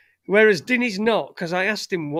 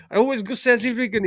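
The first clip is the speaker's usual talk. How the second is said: hammed-up attempt at South African accent, slightly higher; 5 semitones higher than usual. Shown as a demonstration. Explaining where the impression drifts, botched South African accent. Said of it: "It's where I always go".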